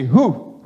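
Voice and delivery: loud, short "hoo!"; demonstrated warrior shout; war cry. Shown as a demonstration. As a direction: echo a Spartan battle shout. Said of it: "they had a shout and they would say".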